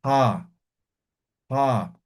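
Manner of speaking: throaty "pa" with a breathy puff; aspirated Q. Shown as a demonstration. Teacher showing the class the aspirated Q, a breathy throaty "pa". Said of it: "pronunciar aspirando".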